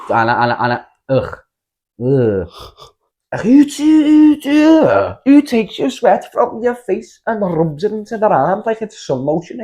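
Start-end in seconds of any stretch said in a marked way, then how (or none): 3.4-9.6 shrieking high, slow, disgusted outburst; outraged disbelief. Real, not acted. Lad telling his mate about the creepy woman, outraged shriek. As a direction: squeal it like you can't believe it happened.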